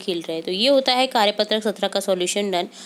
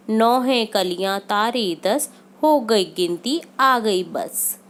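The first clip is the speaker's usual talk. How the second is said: put-on slow, sing-song reading of a children's counting rhyme; poem recitation; slower than usual. Teacher reads the counting poem to pupils, slow and rhythmic. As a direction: recite it line by line for little kids.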